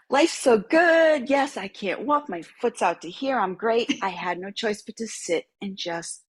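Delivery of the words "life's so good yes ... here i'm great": exaggerated happy-camper sarcasm; ironic cheer. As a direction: gush sarcastically about being great. Ironic cheerful quote retold.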